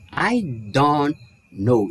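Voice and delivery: "I don't know" run together slowly; smooth linked phrase. Shown as a demonstration. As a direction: link "I don't know" in one flow. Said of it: "Eu não paro para dizer".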